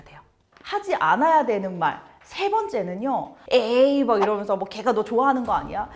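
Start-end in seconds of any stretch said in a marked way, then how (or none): 3.5-5.9 teasing. Retold or imitated. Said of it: "놀리는 분들이 있어요".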